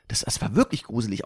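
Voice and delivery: low, soft, eerie; spooky voice. Acted. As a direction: say it like a ghost story. Says it twice, second time spooky.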